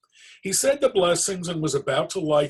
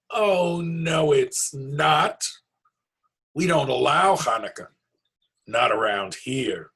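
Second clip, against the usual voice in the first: bossy goblin; 4 semitones higher, 6 dB louder than usual. Acted. Goblin forbids Hanukkah.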